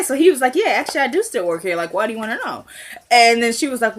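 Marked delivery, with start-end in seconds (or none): 0.6-2.6 lightly imitated smug comeback; retold smug nonchalance. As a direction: answer as if totally unbothered, a touch smug. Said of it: "like, super smug".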